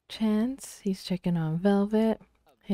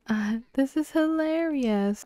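amused character voice; 7 semitones higher than usual. Acted. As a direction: play a tickled game character, pitched up high. Acting out an amused Sim.

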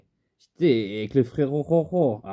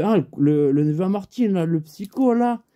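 excited recognition; 5 semitones higher, 4 dB louder than usual. Retold or imitated. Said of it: "Je fais".

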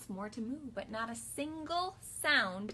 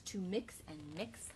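whispered recipe; 4 semitones lower, 11 dB quieter than usual. Acted. Stew recipe read whispered.

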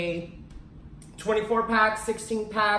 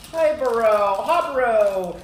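greeting the pet; 5 dB louder than usual. Real, not acted.

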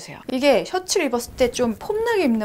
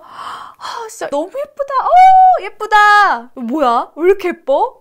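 much higher, loud gushing praise; gushing compliments; 9 semitones higher, 8 dB louder, slower than usual. Pretend. Photographer cheering on her model, gushing and high. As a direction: rave like a thrilled photographer. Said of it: "이렇게 얘기를 해주면서".

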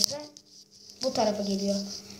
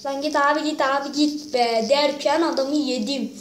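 excited yelling; 2 semitones higher, 6 dB louder than usual. Real, not acted. Kid gamer gets eaten in game.

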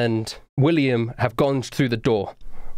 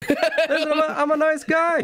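rough cheerful pirate, much higher; pirate captain voice. Acted.

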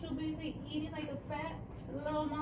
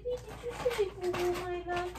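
put-on baby talk; 5 semitones higher, much faster than usual. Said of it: "repeated higher".

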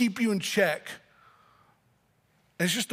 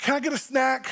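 put-on pleading kid; 5 semitones higher than usual. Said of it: "they were like".

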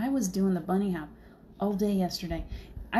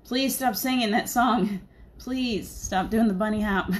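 higher, louder pleading through laughter; laughing plea; 3 semitones higher, 5 dB louder, slower than usual. Retold or imitated. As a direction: beg him to stop while cracking up. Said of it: "I asked him a number of times".

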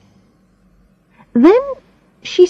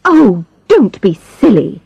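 complaining invalid; 3 semitones higher than usual. Acted. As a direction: whine it like a fussy invalid. Invalid woman dismissing advice.

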